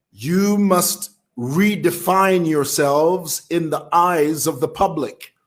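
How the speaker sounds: slow, deliberate quoted order; measured, emphatic directive; retold firm admonishment. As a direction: quote the leader's stern instruction slowly. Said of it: "in no uncertain terms".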